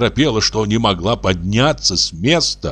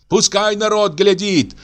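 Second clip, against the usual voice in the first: much higher, tearful furious outcry; Aksinya screaming in tears; 11 semitones higher than usual. A narrator's reading. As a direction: wail out her grievance at the in-laws. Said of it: "кричала Аксинья". (рыдающий гневный крик, намного выше)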